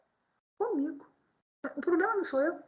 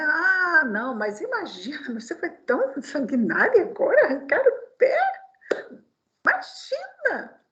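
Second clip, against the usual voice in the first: mock indignation. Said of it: "nós tirarmos de nós, né?".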